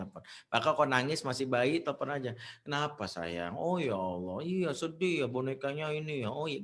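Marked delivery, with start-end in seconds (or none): 2.6-6.6 lightly acted tender, swooping comfort; comforting parent. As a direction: soothe a little child over a lost mood. Parent soothing crying child by phone.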